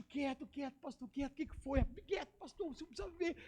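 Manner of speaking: high, soft, urgent shushing; urgent hushing. Retold or imitated. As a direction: hush him so nobody gets caught. Hushing pastor to see secretly.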